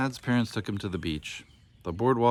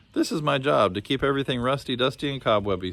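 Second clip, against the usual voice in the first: cheerful; 4 semitones higher than usual. Acted. Booney cheers up the crying boy, cheerful. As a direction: brighten up to distract the boy.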